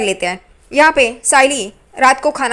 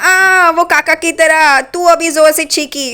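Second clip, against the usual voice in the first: teasing; 4 semitones higher, slower than usual. Retold or imitated. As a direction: drag it out to rub it in. Teasing aunt about her sneeze.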